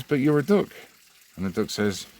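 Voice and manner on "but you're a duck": high-pitched disbelief; amazed barman. Acted. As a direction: point out the obvious in shock.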